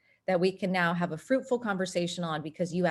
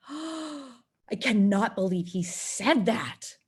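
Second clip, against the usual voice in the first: shocked disbelief; 3 semitones higher, slower than usual. Retold or imitated. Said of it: "you're like".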